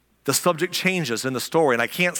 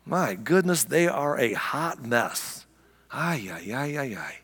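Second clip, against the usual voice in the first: mocking disgusted God. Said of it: "he's up there saying".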